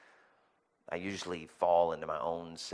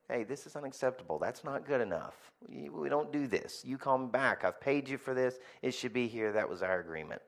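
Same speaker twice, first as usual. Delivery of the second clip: firm but calm; 3 semitones higher than usual. Shown as a demonstration. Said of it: "Let them know that there is a line".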